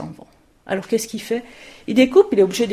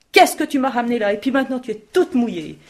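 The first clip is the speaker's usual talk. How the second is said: scolding mother; 2 semitones higher, 4 dB louder than usual. Acted. Mother scolds wet girl.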